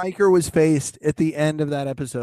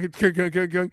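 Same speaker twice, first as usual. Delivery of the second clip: mock door knock. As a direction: knock knock sound spoken. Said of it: "We knock".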